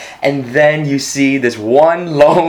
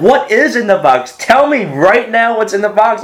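much higher, urgent, demanding; desperate excitement; 9 semitones higher than usual. Retold or imitated. Viewer pleading with the screen to reveal the box, excited. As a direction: beg to know, wound up.

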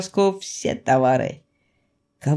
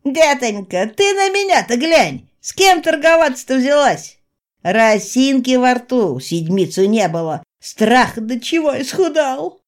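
high, louder whining trader; pitiful merchant; 6 semitones higher, 4 dB louder than usual. Acted. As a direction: play the starving martyr. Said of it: "Тонкий оказался непреклонен".

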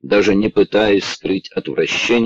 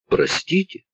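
high, quiet whimper; whining; 11 semitones higher, 4 dB quieter than usual. A narrator's reading. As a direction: whine like a scolded child. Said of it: "захныкал Николсон". (хныкая, тихо и высоко)

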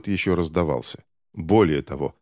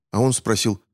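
plain reading voice

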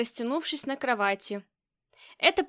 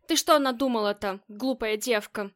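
ordinary delivery

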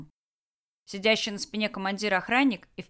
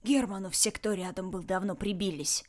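hoarse rasp. Acted. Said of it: "прохрипел Ред".

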